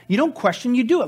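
loud, high, driving the point home; emphatic preaching. Real, not acted. Preacher urging the congregation, forceful and loud. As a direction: hammer it home from the pulpit.

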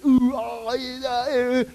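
exaggerated wordless amazement; mock awed noises. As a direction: imitate people overawed, trailing into mumbles. Mocking reactions to incredible signs.

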